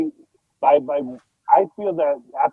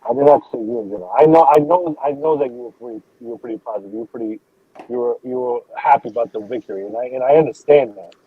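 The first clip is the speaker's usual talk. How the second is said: muffled mic; 2 semitones lower than usual. Real, not acted. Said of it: "your mic is very fumbled up".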